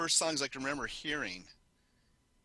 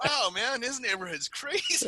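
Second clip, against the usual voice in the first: amazed aside; 8 semitones higher than usual. Retold or imitated. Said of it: "I'm like".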